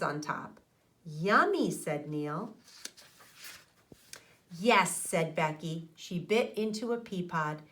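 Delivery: put-on steady storybook read-aloud for young listeners; reading to children. A narrator's reading. Teacher reading a garden story to her class, storybook narration.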